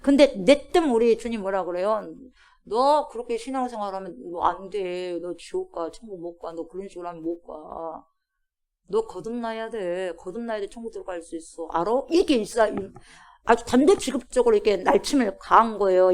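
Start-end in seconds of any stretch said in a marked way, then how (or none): 2.6-12.0 stern rebuke. Acted. Preacher voices Jesus rebuking.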